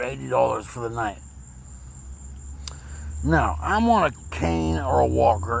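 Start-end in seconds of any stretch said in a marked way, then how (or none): 3.2-5.6 slurring after a stroke; words slurred and heavy; slurred speech. Real, not acted. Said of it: "You can hear my voice, I'm still slurring".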